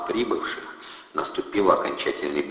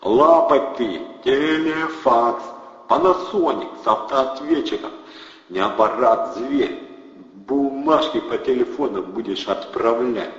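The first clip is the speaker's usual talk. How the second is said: loud, higher gangster pitch; brash hustler; 7 semitones higher, 5 dB louder, slower than usual. A narrator's reading. Thug hypes the fax, brash and loud. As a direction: hype the machine.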